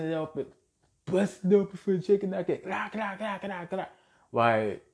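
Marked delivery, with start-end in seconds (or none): 2.6-3.9 quick, softer run of clacks; mock clacking chatter. Speaker mocking supposed barbershop chatter, mock clacking. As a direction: rattle off clacking noises in mimicry. Mimics mindless chatter noise.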